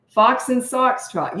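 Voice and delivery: put-on each word drawn out slowly for a toddler; slow read-aloud demo. Shown as a demonstration. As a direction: read it slowly so a little one can follow. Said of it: "You say it".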